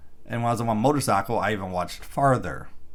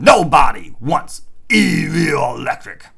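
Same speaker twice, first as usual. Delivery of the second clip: higher and louder, hammed-up sneering at EVs; mock headline outrage; 4 semitones higher, 5 dB louder than usual. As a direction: parrot the anti-EV headlines with fake outrage. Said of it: "I see headlines all the time".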